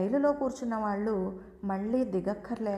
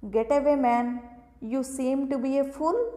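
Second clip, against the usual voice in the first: louder, very slow scornful English dismissal; contemptuous brush-off; 3 semitones higher, 5 dB louder, much slower than usual. A narrator's reading. Railway officer brushing off the narrator: loud, slow contempt. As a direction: spit each word out at the fool in front of you.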